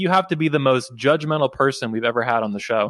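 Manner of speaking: plain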